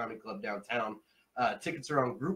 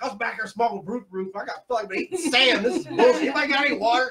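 louder, higher mock rant to the crowd; stage rant; 10 semitones higher, 9 dB louder than usual. Comic to the audience, begging for water, loud and high. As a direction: ham up the complaint, much higher and louder.

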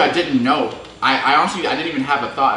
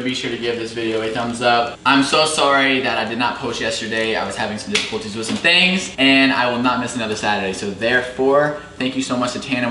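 upbeat host sign-off to camera; vlog outro. Acted. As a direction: wrap up the video for viewers.

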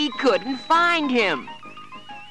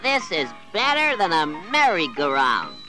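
put-on higher, delighted kid's voice; thrilled children; 6 semitones higher, 4 dB louder than usual. A narrator's reading. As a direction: squeal of fun on the ride.

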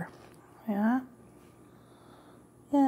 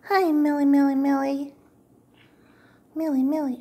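calling the cat; 6 semitones higher, 6 dB louder than usual. Real, not acted.

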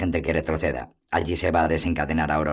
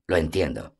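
sad smile. Acted. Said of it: "El elfo sonrió con tristeza".

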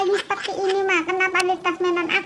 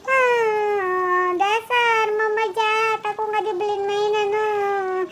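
acted bawling; 3 semitones higher, much slower than usual. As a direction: throw a crying tantrum at mom. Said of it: "aku nangis aja". (menangis meraung-raung)

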